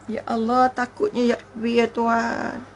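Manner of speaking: softly trembling before God; awestruck fear. Acted. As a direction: breathe it out in dread of judgement day. Hushed awe at judgement day.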